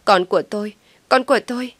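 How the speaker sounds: loud, rising terrified wail; panicked scream. A narrator's reading. Mother screams for her unborn child in panic. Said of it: "Kiều hốt hoảng hét lên".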